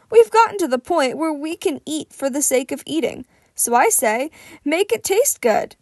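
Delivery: booming, friendly mentor; jovial big hero. Acted. Fat Gum's voice in dialogue.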